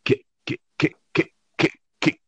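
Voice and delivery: stuttering like a broken recording; lightly voiced glitch, syllables repeating. Host mimics Avi glitching on the call, stuttering. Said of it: "proceeded to try to say".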